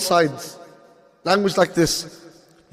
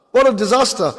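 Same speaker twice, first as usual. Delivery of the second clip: dismayed; 3 semitones higher than usual. Real, not acted.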